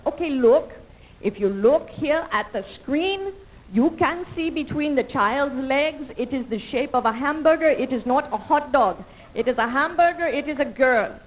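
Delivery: doctor explaining. Retold or imitated. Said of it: "She was like".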